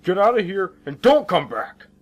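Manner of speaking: loud, high, forceful order; angry shout. Acted. Cop orders the driver to leave, shouting angrily. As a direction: shout them off the scene.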